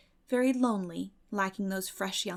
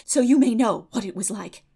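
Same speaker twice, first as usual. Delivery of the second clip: put-on young Anne's voice; 3 semitones higher, 5 dB louder than usual. Anne telling Marilla all about the concert and ice cream, eager girlish voice. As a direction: spill it out like a breathless imaginative girl. Anne recounts her city visit.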